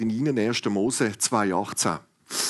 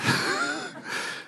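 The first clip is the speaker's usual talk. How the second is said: laugh. Real, not acted.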